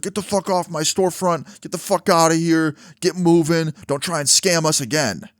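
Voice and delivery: high-pitched mock telling-off; imitated angry yelling. Store employee yelling at the man outside, imitated angry yell. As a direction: act out an employee ordering someone off. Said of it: "he's yelling at the guy".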